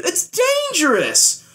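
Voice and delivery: high, slow plea; slowed, high pleading. Acted. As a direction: beg him to listen. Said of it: "pleaded Bartholomew".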